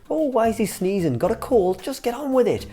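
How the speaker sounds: high, mock-outraged pundit moaning, no Irish accent; hammed-up grumpy pundit griping; Roy Keane impression. Pundit griping about a sneezing captain, in a hammed-up mock rant. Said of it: "would have been so much better if we had someone with an Irish accent".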